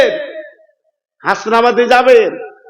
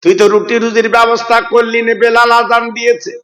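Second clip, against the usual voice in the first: chanted waz narration with long-held line endings; melodic sermon storytelling. Acted. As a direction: intone the story, stretching the last syllables. (সুরেলা ওয়াজের টানা সুরে)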